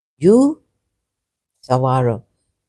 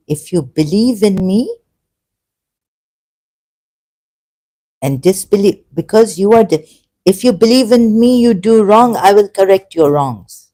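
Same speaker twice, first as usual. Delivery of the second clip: swelling louder and higher as it goes; impassioned proclamation; 4 semitones higher, 4 dB louder than usual. Retold or imitated. Voicing how Allah should have spoken, rising impassioned declaration. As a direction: preach it with mounting fervour. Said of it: "Allah should have said".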